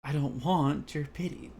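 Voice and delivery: slow, restrained take; delivered line. Shown as a demonstration. Reading Yuri's line seriously. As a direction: deliver it straight. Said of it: "let me try and deliver this line".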